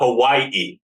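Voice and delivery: final syllable of Hawaii leaned on. Describing the pastor's pronunciation of Hawaii, stress on final 'i' of Hawaii. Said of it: "puts extra emphasis on the I, the second I".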